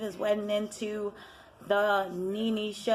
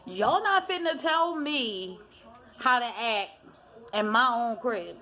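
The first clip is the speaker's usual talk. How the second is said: sassy put-down; 3 semitones higher than usual. Retold or imitated. Nene shutting them down.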